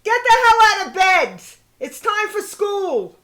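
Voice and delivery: hammed-up impatient mother; mock angry mother. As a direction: bark a kid out of bed. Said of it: "My mother".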